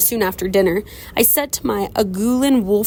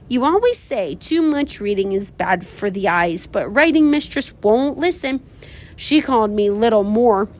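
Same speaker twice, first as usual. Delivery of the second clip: a lightly voiced sulky girl complaining to her mother; whiny Olive. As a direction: drag it out like a miserable child. Olive's letter read in character.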